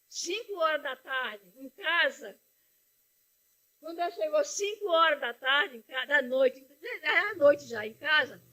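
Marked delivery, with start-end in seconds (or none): 5.8-8.4 real tears breaking through; mother moved to tears remembering; crying. Real, not acted. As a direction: speak through rising sobs. Recalling daughter's return, tears.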